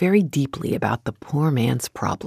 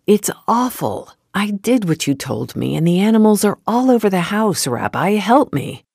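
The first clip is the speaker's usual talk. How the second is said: louder, rushed desperate complaint; distressed plea; 5 semitones higher, 3 dB louder than usual. Acted. Poor man begging the rabbi for help, distressed. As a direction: pour out the panic to the rabbi. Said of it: "he cried".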